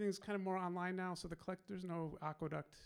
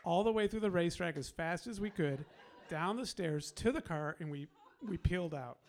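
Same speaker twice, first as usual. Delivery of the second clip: excited, louder story climax with laughter; excited retelling; 3 semitones higher, 5 dB louder than usual. Real, not acted. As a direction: relive the getaway with rising excitement.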